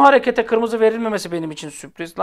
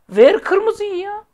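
"Ver kırmızıyı" yelled high and slow, rising on "kırmızıyı"; high, loud, slow plea to give the red card; exasperated yell; 12 semitones higher, 5 dB louder, much slower than usual. Retold or imitated. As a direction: cry out "kırmızıyı" like a frustrated fan, drawn out. Repeating demand, much higher, louder.

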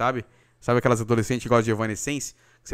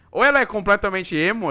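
ordinary talk

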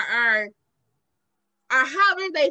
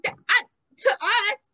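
laughing; 8 semitones higher, 5 dB louder than usual. Real, not acted. Laughing through the point.

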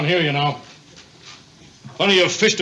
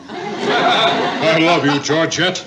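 laughing; 4 dB louder, much slower than usual. Acted. Gleeful repeat of love you.

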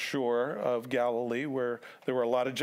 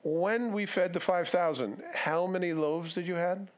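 slow, higher, leading question; pointed quizzing; 4 semitones higher than usual. Retold or imitated. Jesus testing disciples on the loaves, patiently exasperated. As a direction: quiz them like slow pupils.

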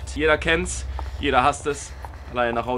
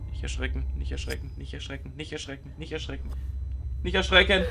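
soft hush; 4 semitones lower, 5 dB quieter than usual. Real, not acted. Tiptoeing, soothing the scene.

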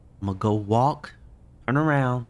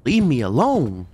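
loud frightened yell; scared yell; 4 dB louder than usual. Real, not acted. Gamer yelling at the monster, scared yell. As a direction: yell it away.

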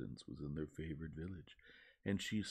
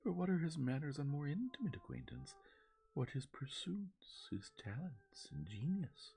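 higher, rising indignant questions; 11 semitones higher than usual. A narrator's reading. Marianne presses Sir John for more, indignant and high. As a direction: press him, offended, drawing out each word. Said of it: "cried Marianne indignantly".

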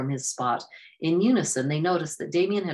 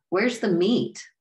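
sarcastic; 6 semitones higher, 4 dB louder, slower than usual. A narrator's reading. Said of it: "Akan asked sarcastically".

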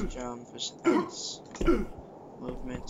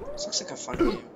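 whispering; 6 dB quieter than usual. Real, not acted. Quiet aside while playing.

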